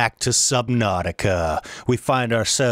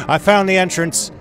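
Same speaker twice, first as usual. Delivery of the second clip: excited; 7 semitones higher, 5 dB louder than usual. Real, not acted. Excited discovery under pressure.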